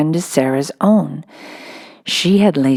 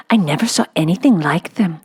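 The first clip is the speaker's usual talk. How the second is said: hushed, breathless amazement; awed whisper. Acted. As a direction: whisper it like a secret. Miss Amelia marvels at clothes.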